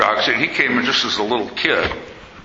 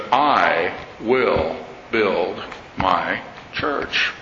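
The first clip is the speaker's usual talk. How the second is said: solemn voice of Jesus; 5 semitones lower, much slower than usual. Acted. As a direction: lay each word down with weight, like scripture. Quoting Jesus in a sermon.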